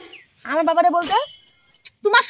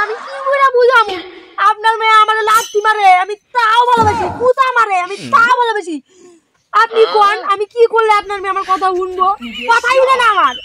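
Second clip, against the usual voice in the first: loud pleading; 2 semitones higher, 5 dB louder than usual. Acted. Son-in-law loudly pleads with mother-in-law.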